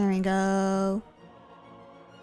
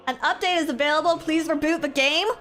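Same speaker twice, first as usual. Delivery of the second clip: mock system voice; 8 semitones higher, 5 dB louder than usual. Reading the game message.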